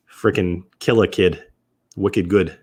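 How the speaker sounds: lightly put-on Boston accent. Whisky streamer answering about his accent, mock Boston accent. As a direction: toss off stock Boston slang in a Boston accent. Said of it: "Boston accent".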